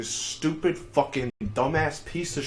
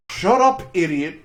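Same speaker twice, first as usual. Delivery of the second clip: retold shout, pitched way up and louder; snapping at a yappy dog in a raised voice; mock yell; 2 semitones higher, 7 dB louder than usual. Yelling at the dog in story.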